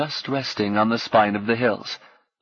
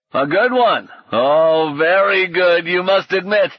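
high, loud crowing knight; loud, jolly self-congratulation; delighted exclamation; 8 semitones higher, 5 dB louder than usual. A narrator's reading. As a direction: crow over a fine blow. Knight exults at his hit.

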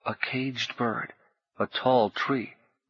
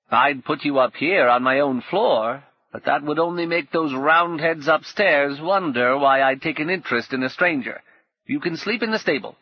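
put-on a bitter old woman, pitched higher and louder; 5 semitones higher, 4 dB louder than usual. Old woman complaining to Paul, higher and louder. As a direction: grumble like a worn-out old crone.

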